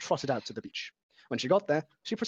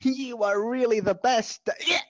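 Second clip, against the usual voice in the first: admiring; 10 semitones higher, 6 dB louder than usual. Acted. Scootaloo admiring, slow.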